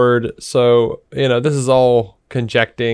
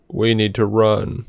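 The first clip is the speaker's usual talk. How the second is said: slow, lifeless line reading; imitating a wooden, inflectionless actor; no inflection; 3 semitones lower, 4 dB quieter, much slower than usual. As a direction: deliver it drawn out with zero inflection. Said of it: "no inflection in his voice".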